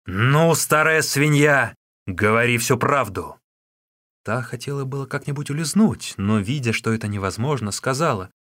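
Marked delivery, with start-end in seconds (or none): 0.0-3.3 a loud, slow yell that pitches higher; furious shout. Acted. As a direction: roar the order at her. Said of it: "закричал".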